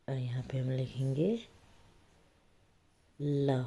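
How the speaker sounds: whisper. Real, not acted. Teacher filling blanks aloud.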